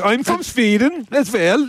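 put-on Swedish accent. Host offers Swedish to co-hosts, mock Swedish accent.

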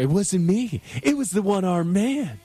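high-pitched comic impression of a desperate denial; Jim Carrey. Co-host teasing the host with a movie quote, mock-desperate. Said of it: "Jim Carrey".

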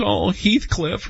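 a hammed-up swoon over a hero; swooning wife. Host imitating his wife swooning over Wuthering Heights. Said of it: "And she goes".

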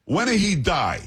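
put-on thick Italian accent. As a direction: needle him in a high-pitched Italian accent. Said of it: "with a thick, uh, um, Italian accent".

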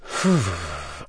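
a long, weary sigh out; heavy sigh. Real, not acted. Author collecting herself in interview, long sigh. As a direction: breathe out to steady yourself. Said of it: "I'm just trying to gather my resilience".

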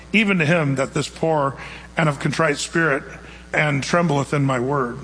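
scripture reading. Acted. Reads Isaiah scripture.

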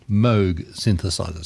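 "Moog" as "mohg", rhyming with "vogue", in "Moog synthesizer"; corrected pronunciation. Shown as a demonstration. Radio host repeating the correction, "Moog" said with a long o. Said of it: "correct pronunciation is".

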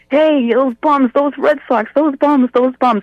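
high mock holler, drawn-out opening; retold yelling. Neighbour Lenny yelling back out the window at Dad, mock yelling. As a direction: imitate a neighbour yelling taunts, pitched well up. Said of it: "Lenny'd be yelling out the window".

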